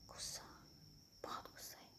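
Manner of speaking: very quiet, barely voiced remark; hushed aside; under her breath. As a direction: say it low, almost to yourself.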